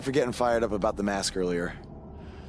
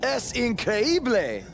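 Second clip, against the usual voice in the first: excited; 9 semitones higher, much slower than usual. Acted. Excited Spanish exclamation.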